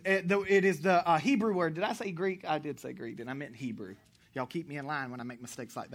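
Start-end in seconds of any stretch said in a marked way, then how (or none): none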